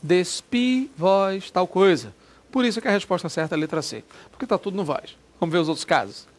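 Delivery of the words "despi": Despi with the I said strong and high; stress on final I. Shown as a demonstration. Teacher showing students the stressed I of Despi. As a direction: land hard on the I of Despi. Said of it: "forte mesmo, é no I".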